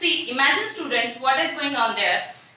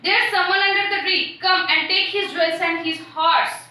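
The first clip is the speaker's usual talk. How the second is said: harsh voice; 4 semitones higher than usual. Acted. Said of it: "Someone is telling in a very harsh voice".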